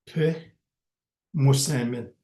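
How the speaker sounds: "pimosemin" drawn out slowly; careful slow demo. Shown as a demonstration. Teacher contrasting present tense for learners, slow. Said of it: "teaching the word".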